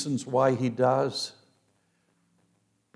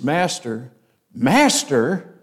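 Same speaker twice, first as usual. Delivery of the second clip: second Master rising and louder; panicked plea; 5 dB louder, slower than usual. Shown as a demonstration. Preacher showing the disciples starting to panic. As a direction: call Master twice, louder the second time. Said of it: "repetition shows you they're starting to panic".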